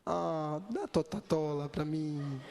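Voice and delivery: slow, playful mock baby voice; baby talk. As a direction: beg for a treat like a little baby, drawn out. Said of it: "Você fala que nem bebê".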